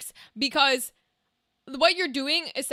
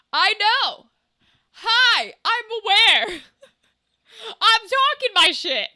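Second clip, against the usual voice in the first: laughing; 6 semitones higher, 6 dB louder, slower than usual. Real, not acted. Laughing, loud self-mocking reply.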